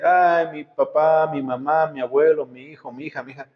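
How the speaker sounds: a touch of mock grief, fading off; grieving mourner. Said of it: "mientras la persona está triste".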